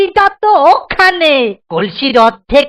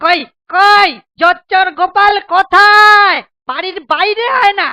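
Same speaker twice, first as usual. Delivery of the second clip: angry shouting; 3 semitones higher than usual. Acted. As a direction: bellow at the cheat to come outside. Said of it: "অত চেঁচাচ্ছ কেন ভাই?".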